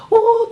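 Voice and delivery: high, half-laughing "おー" like a timid staffer; weak mock "oh". Shown as a demonstration. Boss mimicking a timid employee's weak "おー" at a voice drill, high and half-laughing. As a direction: mimic a feeble "おー" that barely comes out. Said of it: "とかってやらせると".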